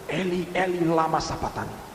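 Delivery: soft, low imitated cry of Jesus; retold groan from the spirit. Preacher voicing Jesus forsaken by the Father, subdued groan. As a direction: groan it quietly from deep within. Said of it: "Itu ngerang dari roh".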